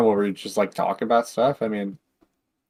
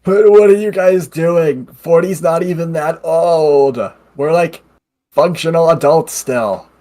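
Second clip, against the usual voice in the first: character voice; 5 semitones higher, 4 dB louder, slower than usual. Pretend. Answers in character voice.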